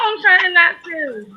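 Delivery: slow, tearful, holding it together; fighting back tears. Real, not acted. Speaker to her honoree, near crying, slow and tearful. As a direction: speak through welling tears, slowing down. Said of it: "As she starts to cry".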